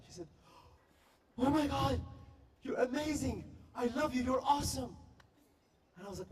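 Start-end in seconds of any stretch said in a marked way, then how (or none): 1.4-5.0 high, loud fangirl gushing; British girl fan. Retold or imitated. British girl meeting the YouTube guy, gushing fangirl voice. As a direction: squeal it like a starstruck girl. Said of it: "this British girl".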